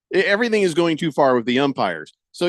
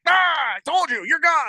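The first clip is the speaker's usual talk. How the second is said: high mock umpire; 11 semitones higher than usual. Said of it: "Wendell says".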